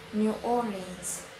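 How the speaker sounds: "New Orleans" slowly, with stress on the second syllable. Shown as a demonstration. Student shows American New Orleans, stressed on the second syllable. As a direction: say "New Orleans" drawn out, weight on "Or". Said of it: "stress that is put in the second syllable".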